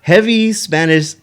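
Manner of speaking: words through laughter; laughing while talking. Real, not acted. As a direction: talk while still laughing. Laughing while describing accent.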